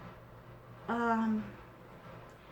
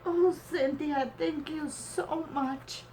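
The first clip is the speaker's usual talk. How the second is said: real tearful gratitude; emotional; 4 semitones higher than usual. Real, not acted. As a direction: apologise while overcome with emotion. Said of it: "I get so emotional".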